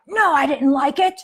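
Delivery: mock aggressive kid; aggressive child. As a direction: snap it back with some fight. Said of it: "Or if he's going to be aggressive".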